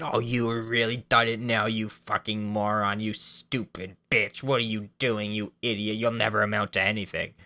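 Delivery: a hammed-up abusive dad on the GPS; abusive father ranting. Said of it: "a G P S with their voice".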